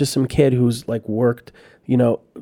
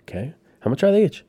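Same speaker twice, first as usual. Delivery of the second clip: voicing the prince; 7 semitones higher than usual. Prince voiced asking price.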